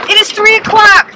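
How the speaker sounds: laughing through the words. Real, not acted. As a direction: laugh while saying it. Laughing at five hours.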